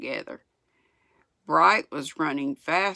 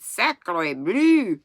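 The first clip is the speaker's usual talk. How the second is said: raised voice, rising to a pointed question; sputtering indignation; 4 semitones higher, 6 dB louder than usual. A narrator's reading. French boy chiding the driver after the spill, indignant. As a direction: taunt with mild indignation, ending high on the tag. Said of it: "Pierre sputtered and wiped the snow".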